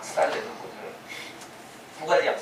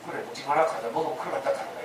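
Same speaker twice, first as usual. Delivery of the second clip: a lightly voiced serpent, hushed and coaxing; whispering serpent; 5 semitones lower, 6 dB quieter than usual. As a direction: lean in and tempt softly like a snake. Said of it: "뱀이 속삭이는 거야". (속삭이듯 유혹하는 뱀 흉내)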